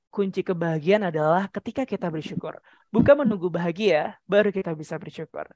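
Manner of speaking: low, soft opening with a slight lift midway; low-key voice-over quote; reversed pitch pattern. Shown as a demonstration. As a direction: begin low and hushed, raise the second clause. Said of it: "Oh, Kak Uta balik".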